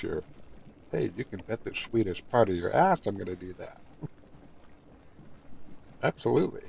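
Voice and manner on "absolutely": emphatic absolutely. Shown as a demonstration. Streamer to viewers, a cheeky emphatic Absolutely. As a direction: land Absolutely with a playful rising flourish. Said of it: "I really had to say it that way".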